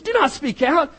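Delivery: "Do not speak out" in a put-on hushing preacher voice, rising on "not"; mock phony preacher. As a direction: mimic the fake preacher's hushing warning. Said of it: "these phony preachers".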